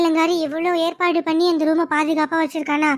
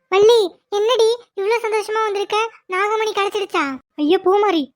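put-on higher, eager gossiping young woman; giddy friend pressing for the secret, pitched up; excited girlish chatter; 4 semitones higher than usual. Excited gossip between girls.

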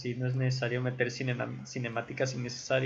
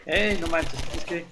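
loud, higher cry of disbelief; 5 semitones higher, 6 dB louder, slower than usual. Real, not acted. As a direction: react in shocked disbelief. Reacting to the game. (incredulidad en voz alta)

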